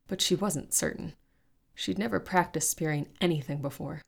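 steady storytelling read, fantasy adventure; story narration. A narrator's reading. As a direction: carry the listener through the fight scene. Podcast host reads a fantasy excerpt.

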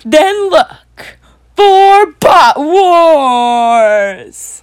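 dramatic trailer voice. Acted. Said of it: "And then it's like".

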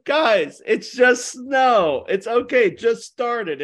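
exasperated at drivers scared of light snow; mock exasperated plea. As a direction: talk down to nervous drivers like it's nothing. Mocking panicked drivers in snow.

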